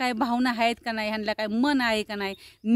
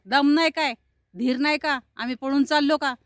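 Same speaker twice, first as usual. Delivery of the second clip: raised, louder mock scolding; rude; 3 semitones higher, 3 dB louder than usual. Conductor berating passenger waiting for change, rude. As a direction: imitate an impatient conductor firing off complaints. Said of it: "हे अशी उद्धट बोलणारे असतात".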